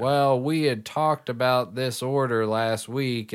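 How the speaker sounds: slow Southern drawl; a slow touch of the South; slight Southern accent. Retold or imitated. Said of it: "he has a little bit of a Southern accent".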